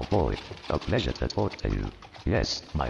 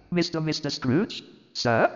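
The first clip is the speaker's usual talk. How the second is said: much higher, stammering disbelief; stunned clerk; 13 semitones higher than usual. Acted. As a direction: voice Bob gaping at the news. Bob stunned by raise.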